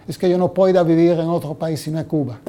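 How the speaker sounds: put-on quick Spanish in a thick Jewish accent; father's Jewish accent. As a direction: imitate an old Polish Jew speaking Spanish with a Jewish accent. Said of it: "he would say that with a Jewish accent".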